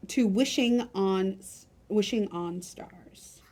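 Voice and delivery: hushed, slow whisper; soft dreamy whisper. Acted. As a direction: breathe the words like a secret wish. Reading aloud, whispered aside.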